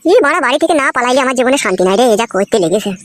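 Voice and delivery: grumbling under breath. Acted. Husband complaining about life at home, grumbling to himself. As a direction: grumble to yourself, letting the pitch drop. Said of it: "কি গুদুর গুদুর করে বকছিস".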